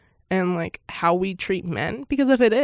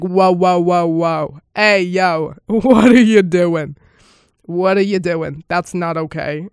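louder, hammed-up whoa whoa; mock outraged men; 7 dB louder than usual. Mocking men who scold the woman, hammed-up outrage. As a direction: play the scandalized guys. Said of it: "they're like".

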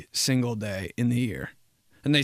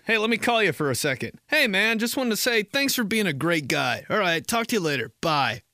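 higher, cheery phone voice; friendly caller; 6 semitones higher than usual. Acted. Imagined friend calling just to say thanks, cheerful. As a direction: sound breezily friendly, a quick kind call.

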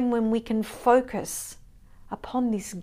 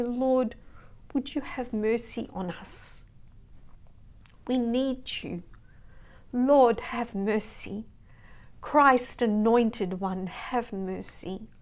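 prayer. Acted. Preacher leading the congregation in prayer, fervent and pleading. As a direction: pray it aloud, pleading.

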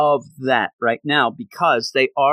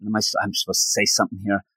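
lower, hurried thinking aloud; nervous self-talk; 4 semitones lower, much faster than usual. Retold or imitated. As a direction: imitate someone urging himself to speak. Acting out his nervous inner debate.

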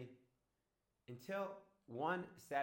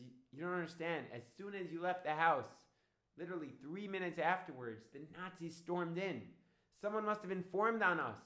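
raised, urgent acted retelling; 4 semitones higher, 5 dB louder than usual. Woman telling Dodi the Nazis stormed in, urgent. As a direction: pour out the news in a higher pitch.

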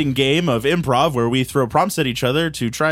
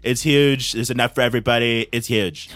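Donald Trump. Pretend. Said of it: "it's Donald Trump".

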